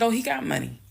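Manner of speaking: heated, high-pitched retold heckling; retold yelling. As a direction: imitate yourself yelling sarcastically at someone across the room. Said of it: "I'm yelling".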